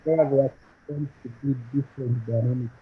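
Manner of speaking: muffled, like a covered mic. Real, not acted. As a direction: talk as if through a hand over the mouth. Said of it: "you seem to be muffled in your sound".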